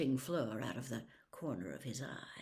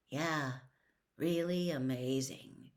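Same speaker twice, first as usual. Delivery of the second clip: heavily; slower than usual. Acted. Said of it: "said Harry heavily".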